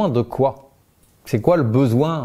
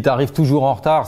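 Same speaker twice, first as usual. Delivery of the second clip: accusing caricature. Shown as a demonstration. Coach demoing a blaming reproach to a late friend, accusing. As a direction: toss out the accusation as a generalisation. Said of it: "C'est une caricature".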